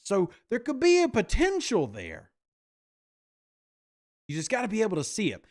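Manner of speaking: a hint of a front-office boss hyping his backup; Mickey Loomis impression. Host playing the GM pitching stats to fans, lightly mocking. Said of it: "Did I do my best Mickey Loomis impersonation?".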